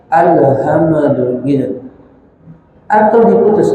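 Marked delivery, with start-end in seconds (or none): 0.1-1.4 alhamdu with a bounced lam, slowly. Shown as a demonstration. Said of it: "biasanya dipantul". (contoh salah lam dipantul)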